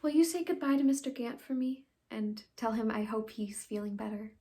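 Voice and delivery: earnest stage farewell, swelling then softening; dramatic monologue. Acted. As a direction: send goodbyes, lifting on the last names then dropping away. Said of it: "I'll be doing a monologue".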